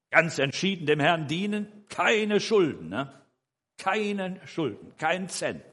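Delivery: high-pitched, insistent stress on "keine"; emphatic resolve. Retold or imitated. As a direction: stress KEINE hard, stretching it out. Stating his firm resolve, emphatically.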